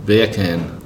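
"Beer can" said as "bacon" in Jamaican accent. Shown as a demonstration. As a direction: say "Beer can" like "bay-kun", Jamaican style. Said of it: "if you say beer can in a Jamaican accent".

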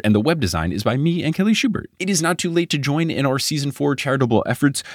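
steady podcast sign-off read; host's closing credits read; outro read. Acted. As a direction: thank listeners and run the credits.

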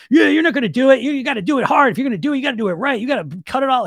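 high, pushy drill sergeant in the head. Acted. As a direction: berate them like a drill sergeant. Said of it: "we got this drill sergeant voice".

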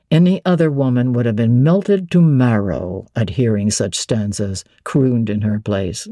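lightly voiced Rochester, reproachful. A narrator's reading. Rochester's reproach, lower, slower.

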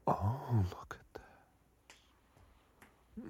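normal talking voice

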